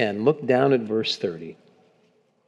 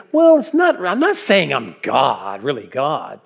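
mock denial. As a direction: squeak out a mild mock denial. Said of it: "He doesn't say to them".

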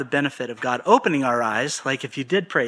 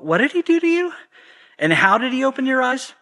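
much higher, mock-shrill interrogation; grilling leaders; 9 semitones higher than usual. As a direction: play the nagging questioners, pushing. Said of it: "it says".

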